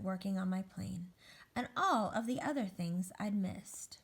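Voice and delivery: deliberate, suspenseful storybook reading; picture-book narration. Acted. Egg climbs the wall terrified, suspenseful storybook narration. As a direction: build the climb with weighted words.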